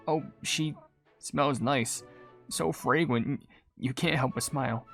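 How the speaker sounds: low, hushed, dreamy aside; soft admiration. Acted. Cutscene figure taken with a newcomer's fragrance, soft low admiration.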